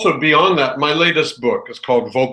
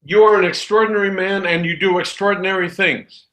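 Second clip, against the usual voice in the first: slower and higher, sincere; honest and slow; 4 semitones higher than usual. Shown as a demonstration. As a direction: say it slowly, with real sincerity. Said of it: "change pitch and slow it down".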